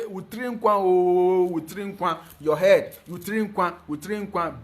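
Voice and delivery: slow chanted blessing, Utri nkwa o; slow, lightly sung Akan praise; Akan birth greeting. Retold or imitated. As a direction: intone the greeting to a new mother. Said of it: "We say".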